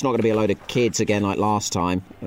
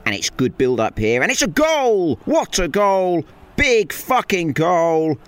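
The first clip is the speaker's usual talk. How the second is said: screaming goal celebration, much higher and louder; frantic mock sports commentary; 8 semitones higher, 5 dB louder, slower than usual. Shown as a demonstration. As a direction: yell it like a last-minute winner. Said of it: "How was that?".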